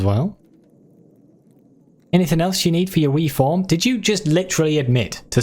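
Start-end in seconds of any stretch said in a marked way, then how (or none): 2.1-3.6 higher, quicker hammed-up Scottish brogue; a game shopkeeper in a cheesy Scottish accent; bad Scottish accent, pitched up and rushed; awful put-on Scottish accent. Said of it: "my awful accents".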